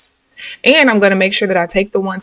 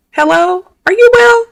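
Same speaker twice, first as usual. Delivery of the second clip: incredulous; 13 semitones higher, 6 dB louder than usual. Real, not acted. Incredulous rant.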